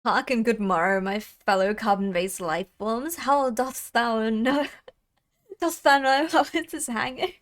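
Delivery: lightly hammed-up olde English speaker; mock archaic greeting. Greeting fellow life forms in jest, mock archaic. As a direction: play at a grand olde-world herald.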